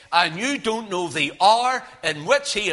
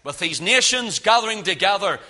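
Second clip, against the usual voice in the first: war cry; 5 dB louder than usual. Acted. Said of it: "and it's a war cry".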